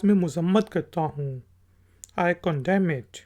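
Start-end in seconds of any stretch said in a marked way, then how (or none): 2.2-3.2 I condemn it said slowly, word by word; slow example. Shown as a demonstration. Teacher says the example slowly for students. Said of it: "कंडेम किसी चीज़ की मजम्मत करना".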